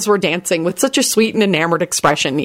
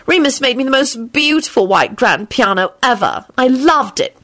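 put-on young girl voice; 7 semitones higher than usual. Girl complaining about vanished piano.

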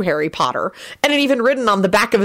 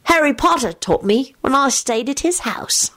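put-on higher boyish voice feigning modesty; would-be modest; 8 semitones higher than usual. A narrator's reading. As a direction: boast while trying to sound modest. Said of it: "a modest-sounding voice".

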